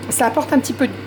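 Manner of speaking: talking through hiccups; hiccuping mid-sentence. Real, not acted. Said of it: "pardon, j'ai le hoquet".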